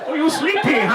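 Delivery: put-on high, loud baby talk in an Asian accent; mock Asian accent. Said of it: "the moment I do an Asian accent".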